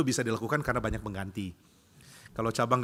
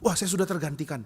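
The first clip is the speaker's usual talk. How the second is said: mock surprise, pitched up; acted dismay on a higher note; startled; 4 semitones higher than usual. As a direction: act taken aback. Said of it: "dia kaget".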